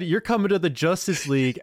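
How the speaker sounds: mock Superman. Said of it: "Superman said".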